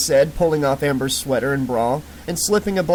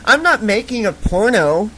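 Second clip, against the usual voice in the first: put-on loud belligerent drunk holler; 6 semitones higher, 4 dB louder than usual. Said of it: "she hollered".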